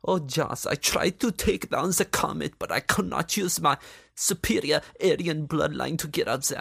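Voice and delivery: a mocking hint of Hitler ranting. Mocking Hitler pitching a comet plan, hammed-up dictator voice. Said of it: "Is Hitler gonna come back from the grave and be like".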